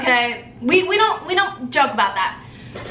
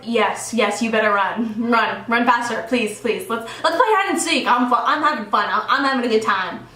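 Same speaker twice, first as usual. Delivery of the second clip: low-pitched, playful menace; menacing taunt; 3 semitones lower than usual. Retold or imitated. Driver taunting the fleeing boys as she chases them, playful menace. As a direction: taunt someone running away, relishing the chase.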